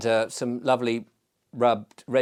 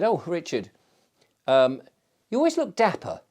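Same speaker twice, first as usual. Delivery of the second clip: higher, quoting a friendly passer-by; quoting a compliment; 4 semitones higher than usual. Retold or imitated. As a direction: echo the compliment brightly. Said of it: "they said".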